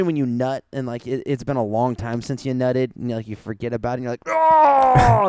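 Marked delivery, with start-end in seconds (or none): 4.3-5.3 sudden high yelp, much higher and louder; mock surprised yelp. Telling a friend about a surprise, a high startled yelp. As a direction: blurt it out like a startled shout.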